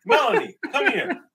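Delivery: high, loud call across the bank. Retold or imitated. To coworker across the bank, high loud call. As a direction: call her over loudly. Calling coworker over loudly.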